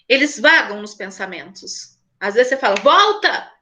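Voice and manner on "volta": put-on higher-pitched call to snap a child back. Parent calling a daydreaming child back, mild raised call. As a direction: call the dreamer back to earth.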